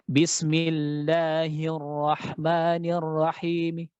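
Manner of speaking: Bismillahirrahmanirrahim dengan suara lirih samar; rom reading. Shown as a demonstration. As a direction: bacaan rom, suara dikecilkan. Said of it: "Jadi seperti ini cara baca romnya". (bacaan rom yang lirih)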